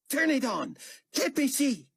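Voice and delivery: raging command; furious demand. A narrator's reading. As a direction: demand it in rage. Carpathia demands to see screen.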